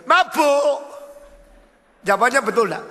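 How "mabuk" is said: high, loud reply from the pit; drunk man answering. Acted.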